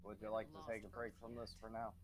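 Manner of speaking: ordinary talk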